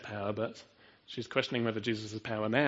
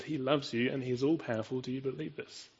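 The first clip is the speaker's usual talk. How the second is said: ordinary delivery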